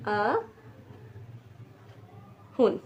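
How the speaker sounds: अहुन whispered, very slow; whispered repeat. Shown as a demonstration. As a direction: breathe अहुन softly. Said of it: "ninety को हम लोग कह देते हैं".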